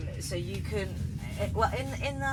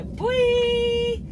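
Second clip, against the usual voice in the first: excited yelp; 12 dB louder than usual. Real, not acted. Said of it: "I'm getting too excited".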